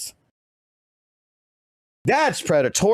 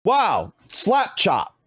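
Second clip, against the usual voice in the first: mock awe; 3 semitones higher, much slower than usual. Mocking the infomercial pitch.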